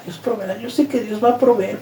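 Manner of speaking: Dios proveerá said softly, without conviction; quiet, doubtful echo of "Dios proveerá"; half-hearted. Retold or imitated. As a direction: repeat "Dios proveerá" as if trying to believe it. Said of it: "pero realmente no lo sentía".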